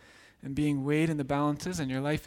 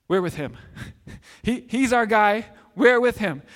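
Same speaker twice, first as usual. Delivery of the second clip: cheering soldiers; 4 semitones higher, 5 dB louder than usual. Acted.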